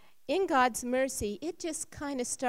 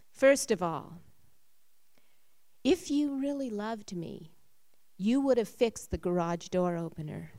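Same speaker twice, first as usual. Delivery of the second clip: sharp, louder scolding of her husband; angry complaint; 4 dB louder than usual. Retold or imitated. Wife scolding her husband at dinner, angrily. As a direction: lay into him with grievances.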